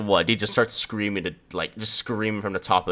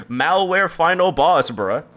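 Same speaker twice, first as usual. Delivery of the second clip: high, loud and slow through laughter; drawn-out, amused yell; laughing outburst; 7 semitones higher, 5 dB louder, slower than usual. Real, not acted. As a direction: call it out while cracking up. Cracking up over the download request.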